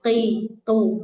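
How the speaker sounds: Qi with an overdone thick throat sound. Shown as a demonstration. Teacher demonstrating an overdone thick Qi. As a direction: make Qi heavy and throaty. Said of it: "tebelnya kedengeran".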